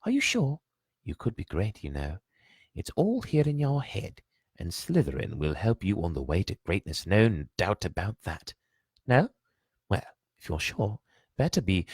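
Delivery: put-on high, pondering old hat voice; musing Sorting Hat. The Sorting Hat sizing up Harry, musing aloud. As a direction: weigh him up aloud, unhurried.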